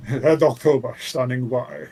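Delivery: lightly put-on Russian accent. Joking about the Red October bar, mock Russian accent. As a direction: play at a Russian submariner's accent. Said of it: "That was a good accent".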